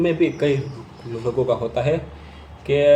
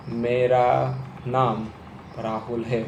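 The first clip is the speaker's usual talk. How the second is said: मेरा drawn out slowly, then नाम राहुल है smooth; first word stretched; 2 semitones lower, slower than usual. Shown as a demonstration. Coach showing how to stretch the first word. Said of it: "मैंने मेरा को थोड़ा खींचा".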